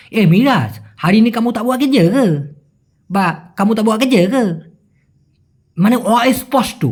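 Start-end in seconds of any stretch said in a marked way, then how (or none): 0.1-2.3 slurred Malaysian slang with a pulled ending; Malaysian slang drawl. Shown as a demonstration. Teacher showing how Malaysians ask, in slang drawl. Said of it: "স্ল্যাংয়ে টান দিয়ে বলে কীরকম". 3.6-4.4 slurred Malaysian slang with a pulled ending; Malaysian slang drawl. Shown as a demonstration. Teacher showing how Malaysians ask, in slang drawl. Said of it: "স্ল্যাংয়ে টান দিয়ে বলে".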